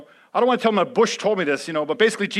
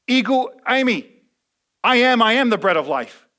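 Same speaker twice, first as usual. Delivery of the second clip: louder proclamation of Jesus; Jesus declaring; 5 semitones higher, 7 dB louder than usual. Retold or imitated. Jesus answering people asking for bread, loud proclamation.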